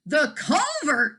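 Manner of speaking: loud, slow triumphant shout; yelled. A narrator's reading. Farmer finding the hiding place, loud slow shout. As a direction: call it out like a discovery. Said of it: "yelled Mister Wagon Wheel".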